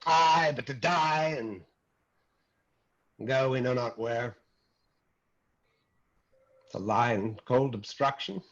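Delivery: measured, slowed verse recital; poetic recitation. Acted. Teacher quoting verse to acting class, poetic recitation. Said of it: "if you want to get wax poetic".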